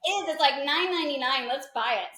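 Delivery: acting out the thrill of finding it cheap; excited discovery. Excitedly retelling finding the website.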